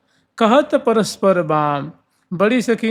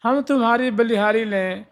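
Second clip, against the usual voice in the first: higher hushing हाँ हाँ, हो हो; hushing the sakhis; 4 semitones higher, slower than usual. Retold or imitated. Elder sakhi hushing the chattering friends, higher-pitched. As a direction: shush the friends urgently but lovingly. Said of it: "तो वही कह रही हैं".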